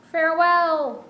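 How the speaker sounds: high, grand dragon farewell. Pretend. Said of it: "That was a stupid dragon voice".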